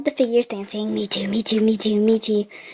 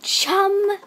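mock Australian accent; 4 semitones higher, much slower than usual. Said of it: "To make fun of Australians".

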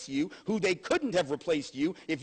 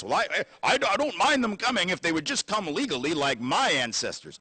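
mock white objector. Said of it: "We say things like this".

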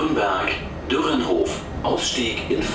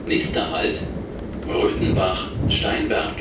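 over the intercom. Real, not acted. Recorded train stop announcements.

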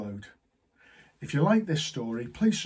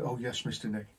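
blank; 3 semitones lower, 7 dB quieter than usual. Retold or imitated. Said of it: "he just looked at me blank".

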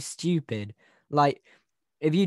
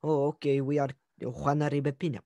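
a light, hammed-up Mexican accent on the name; mock Mexican accent; 3 dB quieter than usual. Joking to cohost while reading case, mock Mexican accent. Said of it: "You can't do the accent".

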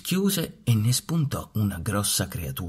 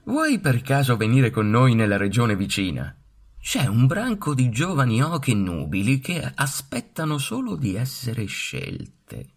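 put-on louder, high, cocky young bird voice; giovani papaveri; 5 semitones higher, 4 dB louder than usual. A narrator's reading. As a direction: show off as the vain young birds. Cocky young ganders teasing. (papaveri giovani e pieni di sé, voce alta)

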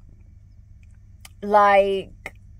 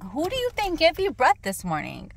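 retold challenge; 8 semitones higher than usual. Retold argument with boyfriend.

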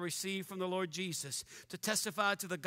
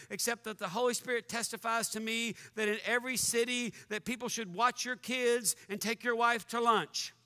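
wrong verse read deadpan as if scripture; mock misreading. Shown as a demonstration. Preacher misquoting Acts for a laugh, deadpan reading. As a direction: slip the joke in straight-faced.

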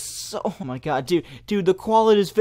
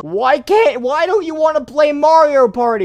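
higher and louder, laughing through the line; laughing mock repeat; 9 semitones higher, 6 dB louder than usual. Real, not acted. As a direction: parrot the line while cracking up.

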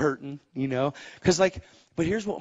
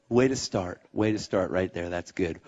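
God's voice; 6 semitones lower, 4 dB quieter than usual. Retold or imitated. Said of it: "He's like".

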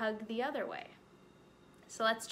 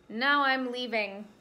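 louder, slow huffy exit; fed-up bunny; 7 dB louder than usual. Acted. Spit-covered rabbit to bear, slow huffy exit. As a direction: leave in a huff.

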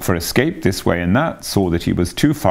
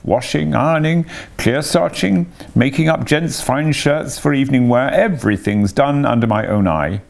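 put-on high fussy old washerwoman; 7 semitones higher than usual. A narrator's reading. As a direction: play Toad disguised as a chattering washerwoman. Toad boasts as washerwoman.

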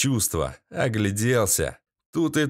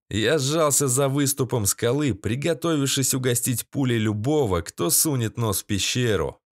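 plain reading voice

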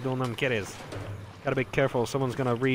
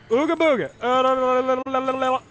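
silly taunting; 9 semitones higher, 4 dB louder than usual. Pretend. Taunting enemy with silly noises.

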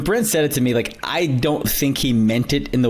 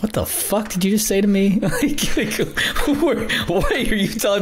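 higher, mock-offended comeback; incredulous retort; 9 semitones higher than usual. Glancing at his mentor after the praise, mock-offended retort. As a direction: act stunned, as if insulted. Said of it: "I was like".

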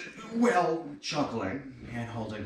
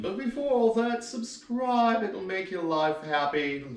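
jumps much higher for a quick plug; sudden excited plug; 9 semitones higher, 5 dB louder than usual. Real, not acted. Comedian cutting his own joke to push subscribing, high and excited. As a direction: break off brightly to plug the channel.

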